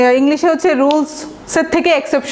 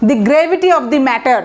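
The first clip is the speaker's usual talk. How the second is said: slow example phrase; much slower than usual. Shown as a demonstration. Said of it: "gravity".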